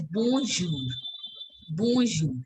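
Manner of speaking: bonjour with the n barely heard; bonjour, nasal vowel and no clear n; subtle n. Shown as a demonstration. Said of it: "N sound has to be very subtle".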